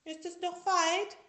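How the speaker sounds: put-on high, loud small-child voice; little tiger asking. A narrator's reading. Sick little tiger asking the wolf, high small voice. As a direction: ask like a tired little kid. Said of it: "fragte der kleine Tiger".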